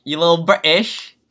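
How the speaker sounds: teasing, badly faked British accent; failed British accent. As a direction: have another poor go at British. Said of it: "I can't do a British accent".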